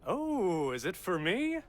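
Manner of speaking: high, loud burst of delight; eager excitement. Acted. Driver asking about a package, excited and loud. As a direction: pounce on it with loud, rising eagerness.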